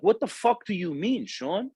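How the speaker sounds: high-pitched mock yell at the kid; retold angry outburst. Mentor tearing into a slacking student, high mock yell. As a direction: rip into him in front of everyone, high and sharp. Confronts student in front of class.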